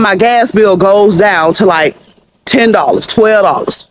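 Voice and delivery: normal talking voice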